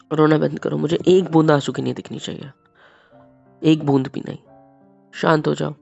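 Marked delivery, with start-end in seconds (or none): 0.1-4.4 loud, firm command to stop crying; stern order. Acted. Husband loudly ordering his crying wife to stop. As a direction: forbid her tears outright.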